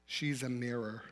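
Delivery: soft, hushed inner voice. Retold or imitated. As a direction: say it like a quiet voice inside your head. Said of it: "I heard a voice in my heart and head say".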